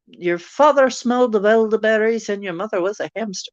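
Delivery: badly faked French insult voice; silly French accent. Recalling a film's insult, silly French accent. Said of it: "And a really silly French accent".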